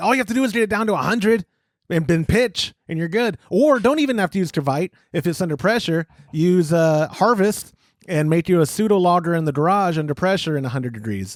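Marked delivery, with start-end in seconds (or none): 0.0-3.4 mild, raised yell. Imagining a viewer yelling at the screen: imitating Jonathan Marut yelling. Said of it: "I hear him yelling like".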